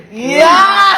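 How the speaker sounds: loud, high, drawn-out cheer; excited shout. Real, not acted. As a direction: yell it out in triumph. Cheering as the shoes are shown. (tuwang-tuwang sigaw)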